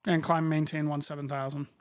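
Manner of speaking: crisp controller radio call; air traffic control radio. Acted. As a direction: read clearances like a busy controller. Controller readback correction.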